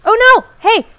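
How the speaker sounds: high, loud cry of alarm; sudden frightened shout. Real, not acted. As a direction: yelp as the monster lunges. Monster attack in horror game.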